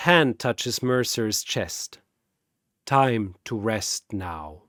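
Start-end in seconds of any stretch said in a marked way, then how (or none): 2.9-4.6 soft, slow and low; gentle finality. Acted. Popo touching Mercer's chest, soft and slow. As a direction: lay him to rest kindly.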